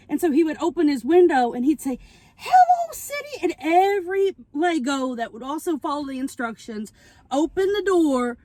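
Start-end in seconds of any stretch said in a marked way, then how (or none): 2.4-3.4 chipper greeting. Retold or imitated. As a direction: greet the city like a cheerful cartoon.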